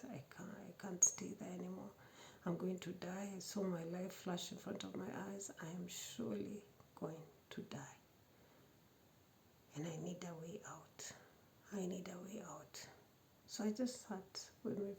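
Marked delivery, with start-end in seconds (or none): 0.0-1.9 hushed panicked whisper; frightened whisper. Retold or imitated. Whispered fear. 5.6-12.8 hushed panicked whisper; soft scared whisper; frightened whisper. Retold or imitated. Whispered fear.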